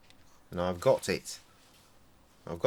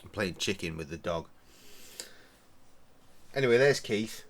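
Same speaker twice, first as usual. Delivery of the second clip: normal talking voice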